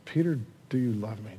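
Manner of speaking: soft, low, tender asking; gentle question. Acted. Jesus asking Peter a second time, gentle hush. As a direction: ask it quietly, pitched low.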